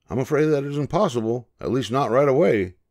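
a friendly cat greeting a frightened cub; Nemo the ship's cat. A narrator's reading.

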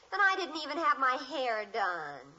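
a touch of crying in the voice; on the verge of tears; dismayed whimper. Acted. Daughter upset that she didn't get her hair done, mild teary whimper.

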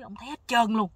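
roep het hard uit, een stuk luider; luid uitgeroepen. Retold or imitated. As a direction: verbijsterd uitgeroepen, luider dan de rest. Narrator retells what the man saw.

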